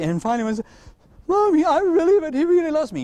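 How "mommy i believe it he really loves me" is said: put-on little child's voice. Child voiced in retold story.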